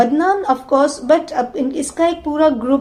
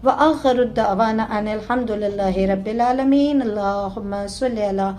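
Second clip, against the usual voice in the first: closing prayer. Acted. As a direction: plead humbly to God, easing down. Preacher leads closing supplication.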